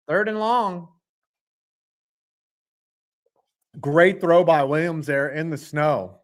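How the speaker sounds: steady announcer calling the drive; play-by-play call. Acted. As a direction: narrate like a TV commentator.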